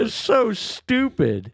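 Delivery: drawn-out laughing disbelief; slow amused voice. Real, not acted. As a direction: stretch it out, amused. Laughing at memory.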